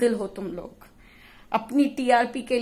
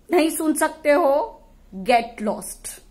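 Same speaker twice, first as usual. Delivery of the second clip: indignant higher outburst; heated brush-off; 4 semitones higher, much slower than usual. Real, not acted. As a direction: fling it at them. Dismissing critics.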